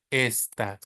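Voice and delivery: esta said slowly, open final a; slow model of esta; Spanish esta. Shown as a demonstration. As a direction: stretch out esta against este. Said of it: "So it's not este".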